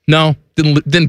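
words with a real voice crack. Real, not acted. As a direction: voice cracking on a high note. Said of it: "That was a nice little voice crack you just had there".

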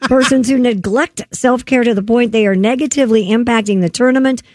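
radio news story delivery; news read. Real, not acted. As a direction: read it out like a newscaster.

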